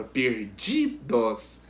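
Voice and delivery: "perdidos" in slow syllables, leaning on "di"; teacher's drawn-out "perdidos", middle syllable stressed. Shown as a demonstration. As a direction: slowly separate "perdidos" to show the stressed "di". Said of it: "a sílaba tônica".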